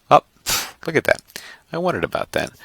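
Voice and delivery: high, delighted discovery; suddenly spotting the color, pleased; pleasant surprise. Real, not acted. Teacher to online class, noticing the hidden color with surprise.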